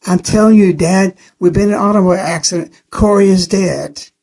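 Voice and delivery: mother repeating it desperately to her father; a hint of rising panic in "Corey is dead". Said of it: "She said at least five times".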